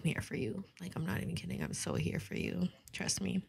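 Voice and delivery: whispered reassurance, close to the mic; soft whisper. Real, not acted. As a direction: breathe it softly to someone hurting. Comforting the viewer softly.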